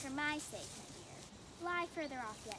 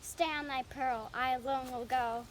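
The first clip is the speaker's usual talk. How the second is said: angry threat; 9 dB louder than usual. Acted. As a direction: hammer each word at her. Demetrius threatening Helena.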